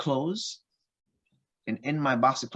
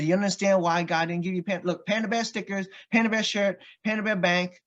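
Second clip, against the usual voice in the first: exasperated listing; 7 semitones higher than usual. Retold or imitated. Dad listing the panda gifts.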